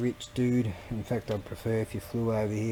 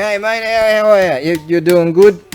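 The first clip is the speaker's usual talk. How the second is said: high, loud chummy voice for the figure; mock greeting voice; 9 semitones higher, 15 dB louder than usual. Talking to a figure in a chummy put-on voice. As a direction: greet the figure like a cheeky mate.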